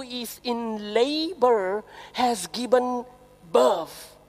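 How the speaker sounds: slow, measured Bible reading; preacher reading prophecy aloud; scripture reading. Acted. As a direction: read the verses slowly and solemnly. Reads scripture passage.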